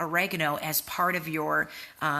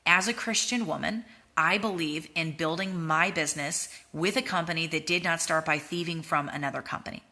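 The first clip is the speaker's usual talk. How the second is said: gentle; 2 semitones lower than usual. Shown as a demonstration. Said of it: "you just very gently say".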